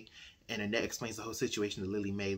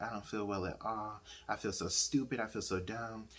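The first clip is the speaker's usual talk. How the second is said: feeling bad; 2 semitones lower, 6 dB quieter than usual. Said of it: "she's feeling real bad about herself".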